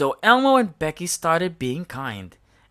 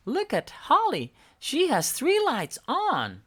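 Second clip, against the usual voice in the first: Bella voice; 10 semitones higher than usual. A narrator's reading. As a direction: urge the others on. Bella continues.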